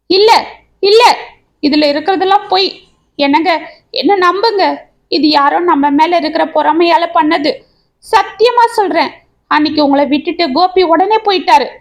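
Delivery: mild tearful pleading; wailing. Acted. Wife begging her husband to believe her, mildly tearful. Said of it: "என்று கதறினாள்".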